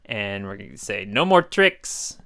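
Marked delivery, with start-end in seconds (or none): 1.1-2.2 spooky demon voice. Shown as a demonstration. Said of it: "sound like a spooky demon person".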